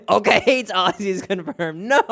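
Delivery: loud and high through laughter; real laughter spilling into the words; laughing. Real, not acted. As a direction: crack up while you say it. Laughing at chat again.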